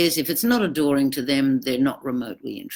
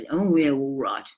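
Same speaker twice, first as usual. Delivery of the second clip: shallow apology. Retold or imitated. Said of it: "any apology ... it's very shallow".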